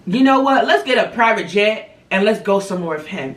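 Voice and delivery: gleefully imagining spoiling her brother; excited dreaming aloud. Pretend. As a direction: announce the big treat like it's really happening.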